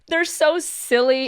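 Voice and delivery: ordinary talk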